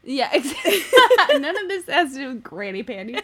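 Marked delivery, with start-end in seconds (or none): 0.0-2.1 laughing while talking. Real, not acted. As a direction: giggle through the words. Laughing through the reply.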